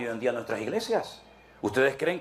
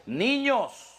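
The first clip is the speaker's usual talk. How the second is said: lightly voiced Paul scolding, higher; Paul scolding immature believers, higher pitched; voicing apostle Paul; 6 semitones higher than usual. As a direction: stretch out carnales like a disappointed apostle. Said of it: "que les dice".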